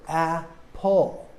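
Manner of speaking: APPLE slowly in two separate syllables; split into syllables. Shown as a demonstration. Teacher showing learners two vowel sounds, APPLE split slowly. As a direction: say APPLE drawn out, each vowel sound apart. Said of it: "hear two different vowel sounds".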